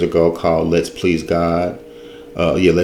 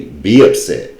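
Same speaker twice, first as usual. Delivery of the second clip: "be upset" with a firm, louder "be"; stress on be; 3 semitones lower, 4 dB louder than usual. Real, not acted. Speaker repeating the correction after excuse me, stress on "be". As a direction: land firmly on "be" in "be upset".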